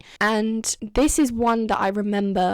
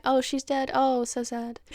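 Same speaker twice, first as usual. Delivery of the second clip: deadpan imitation; 3 semitones higher than usual. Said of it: "completely deadpan".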